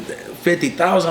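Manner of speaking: high, drawn-out incredulous question; retold disbelief. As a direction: echo the bond amount in mock shock. Retold shock at bond amount.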